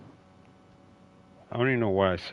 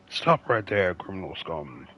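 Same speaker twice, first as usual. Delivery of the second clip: clumsy mock Russian guard voice; weird Russian accent; slower than usual. Shown as a demonstration. Player showing the accent he tried on the fleeing thief, weird Russian accent. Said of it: "in a weird, like, Russian accent".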